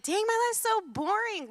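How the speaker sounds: mock bored whine. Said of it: "I would be like".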